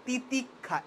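তিতিক্ষা said deliberately, ti-tik-kha with a doubled kh; careful pronunciation. Shown as a demonstration. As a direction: model the clean তিতিক্ষা for students to copy. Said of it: "এবার তুমি একটু উচ্চারণটা ঠিকঠাক মতো করো". (যত্ন করে শুদ্ধ উচ্চারণ)

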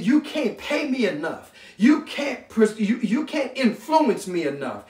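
immovable, standing your ground; emphatic refusal. Acted. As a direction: pile up each refusal with building conviction. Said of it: "That's the kind of force".

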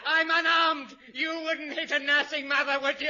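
hammed-up cowardly panic; panicked surrender. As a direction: major surrenders in comic terror.

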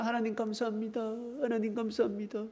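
high, soft thankful prayer; delighted thanks. Acted. Jonah thanking God for the leafy shade, delighted. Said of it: "요나가 너무 좋은 거야".

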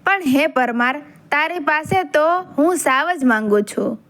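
unhurried story narration with recited verses; folk-tale narration. A narrator's reading. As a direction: tell it like an old legend, line by line.

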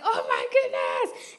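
high, slow, drawn-out amazement; stunned delight. Retold or imitated. Reacting to hearing she is a finalist, slow and high. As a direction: let it stretch out in disbelief. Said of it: "was like".

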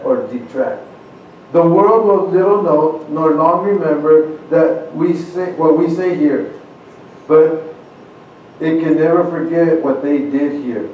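grave, measured oration with weighty pauses; formal speech recitation. Acted. Preacher reciting Lincoln's address to the congregation, grave oration. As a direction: deliver it like a president at a battlefield.

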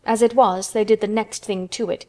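usual speaking voice

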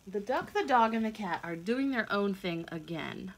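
put-on lively read-aloud for young children; storybook reading. A narrator's reading. Reading a picture book aloud to kids, lively storytelling. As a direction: tell it like a bedtime picture book.

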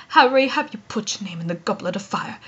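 soft, low, understated question; gentle, hushed, composed delivery; calm. Shown as a demonstration. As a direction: ask it quietly and evenly, very low. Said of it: "calmly like Dumbledore".

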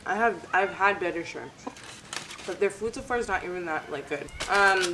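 speaking between bites; talking while chewing. Real, not acted. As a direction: mouth partly full of food. Seen 3: Lifts shrimp on fork to her mouth, bites, keeps talking.

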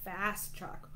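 ordinary delivery, nothing marked

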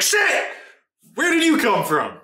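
high-pitched startled outburst, imitating a player; mock startled. Player reacting to an opponent popping up, mock startled. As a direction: imitate someone caught off guard, pitch jumping up.

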